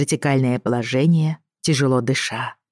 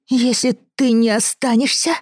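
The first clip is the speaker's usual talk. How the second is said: put-on hesitant child threat; 8 semitones higher than usual. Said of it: "не мог быстро выдумать сколько-нибудь серьёзной угрозы".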